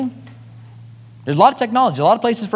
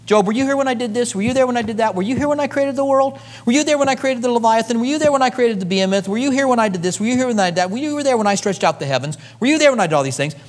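higher, insistent rhetorical questions from God; God questioning Job; 7 semitones higher than usual. Retold or imitated. Preacher voicing God challenging Job, insistent.

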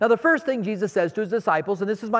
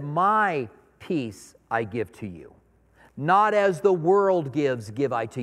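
solemn blessing; 3 semitones lower, slower than usual. Acted. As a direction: give the words like a gentle promise. Jesus quoted, slow and solemn.

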